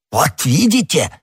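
high, triumphant I-told-you-so; Jesuit's mild outcry; exclaiming. A narrator's reading. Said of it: "воскликнул иезуит".

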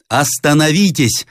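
high, slow cry to stop; shouted command. A narrator's reading. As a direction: rush in and shout at them to stop. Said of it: "вскричал Рославлев". (высокий протяжный окрик)

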